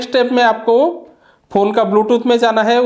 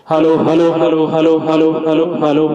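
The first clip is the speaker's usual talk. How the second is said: mic check; 5 semitones lower than usual. Shown as a demonstration. Showing viewers the mic for announcements, a mic-check call. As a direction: lower "hello" repeated through the speaker. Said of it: "तो भी आप इसमें बात कर सकते हैं".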